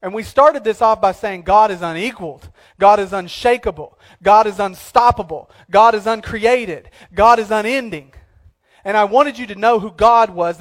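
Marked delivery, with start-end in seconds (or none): 0.0-8.1 louder, punched declarations; full-voiced preaching cadence; preaching build. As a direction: proclaim each line with force. Preaching God's attributes in rising list.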